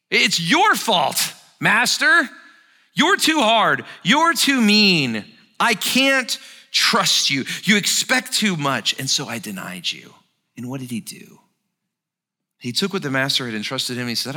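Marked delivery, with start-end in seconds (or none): 0.1-10.1 slow, loud, high, word-by-word blame; slow accusing blame. Acted. Servant slowly blaming his master to his face. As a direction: lay every charge down slowly. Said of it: "Can you hear it?".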